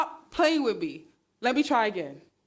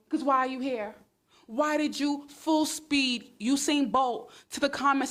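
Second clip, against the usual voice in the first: sarcastic; 2 semitones higher than usual. Real, not acted. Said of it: "Yes, the sarcasm".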